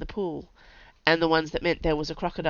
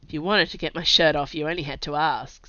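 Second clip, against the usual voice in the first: teasing. Acted. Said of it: "Zed teased".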